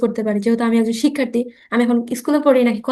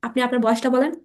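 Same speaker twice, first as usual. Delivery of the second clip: slow drill model; slower than usual. Shown as a demonstration. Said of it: "আমি একবার বলি, আপনারা আমার সাথে সাথে বলেন".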